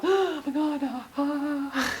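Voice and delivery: high, breathy gasps of excitement; gasping delight. Retold or imitated.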